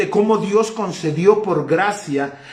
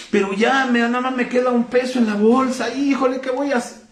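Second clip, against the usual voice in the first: higher, fretting worried voice; worried believer; 6 semitones higher than usual. Retold or imitated. Believer fretting over his last peso, higher and worried. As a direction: play the anxious believer out of money.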